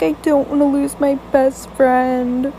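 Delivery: slow, drawn-out imitation whine; mock crying. Friend on her bed losing her best friend, mock crying. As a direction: imitate a tearful friend, words stretched out. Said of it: "started crying".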